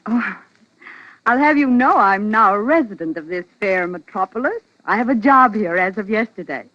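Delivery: bubbly excited. Acted. Ann bubbly news.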